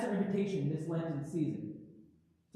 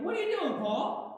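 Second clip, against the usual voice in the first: high alarmed cry at the pilot; mock panic, pitched way up; panicked disbelief; 12 semitones higher, 4 dB louder than usual. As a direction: yelp it in shock. Panicked reaction in plane.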